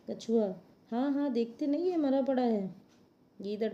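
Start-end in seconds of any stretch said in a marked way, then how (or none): 0.9-2.7 insistent turtle. Acted. Turtle insists crocodile is dead.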